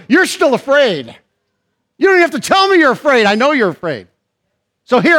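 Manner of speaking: God speaking. Acted. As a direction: preach God's words right at the fearful man. Preacher paraphrasing God, raised voice.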